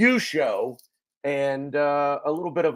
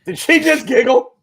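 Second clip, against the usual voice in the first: surprised; 12 semitones higher, 10 dB louder than usual. Real, not acted. Hears the baby giggle.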